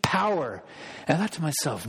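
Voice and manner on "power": put-on a light Argentine Spanish accent, slowed; hint of a thick Argentine accent on mighty power. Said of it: "That's how he would say it".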